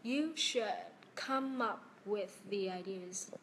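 "You should ... come up with the ideas", slowly with a pause after "should"; slow careful reading. Shown as a demonstration. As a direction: slowly model each link in "come up with the ideas". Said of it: "Cô đọc lại câu cuối đi ạ".

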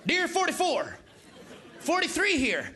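lightly voiced presidential impression; a president stumbling over his own words; George W. Bush. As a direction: read a folksy letter from one president to the next. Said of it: "the letter from George W".

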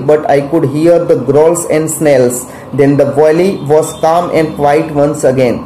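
slow, deliberate reading of the English text; slow lesson reading. Shown as a demonstration. Teacher reading the English lesson aloud to students, slow and deliberate. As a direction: read it word by word for the class.

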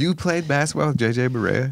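can't believe it, pitch jumping up; surprised. Real, not acted. Host amazed the guest played with an NBA player, rising surprised question.

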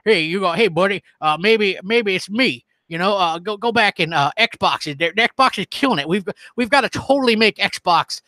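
lightly put-on Southern accent, playing a folksy Xbox fan; mock Southern accent. Streamer mocking Xbox fans in a joking Southern accent. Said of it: "Maybe I need a Southern accent".

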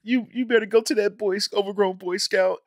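hammed-up Wolverine turning Jean away; mock Wolverine. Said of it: "he was like".

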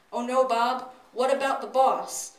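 hammed-up alarm at the doorbell; panicked. A narrator's reading. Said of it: "Missus Johnson panicked".

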